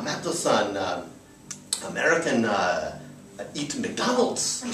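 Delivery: slow halting broken English, a hint of the host; imitating broken English. Driver quizzing the American guest, slow halting mimicry. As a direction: piece the sentence together word by word. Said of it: "here's a little sample of how it goes".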